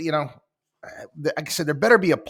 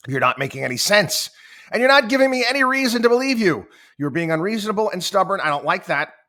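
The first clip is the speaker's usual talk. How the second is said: aggressive; 7 semitones higher, 7 dB louder, faster than usual. Retold or imitated. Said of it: "you sound aggressive".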